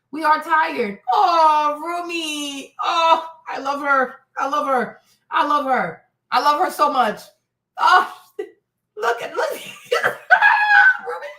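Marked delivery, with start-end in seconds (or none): 1.1-5.0 emotional cry. Real, not acted. Overcome watching the girl. 9.5-11.0 loud high laugh. Real, not acted. Laughing while watching clip.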